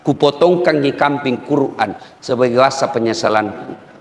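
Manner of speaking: a remorseful prisoner's letter, voiced low and humble; humble apology. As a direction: read it like a sinner begging forgiveness. Dictating a humble letter to victim's family.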